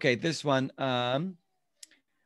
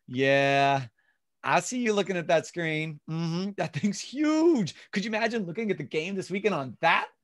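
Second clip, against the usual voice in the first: customized, own words; 2 semitones higher than usual. Shown as a demonstration. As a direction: sell it like a friend hyping the game. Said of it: "Customization is".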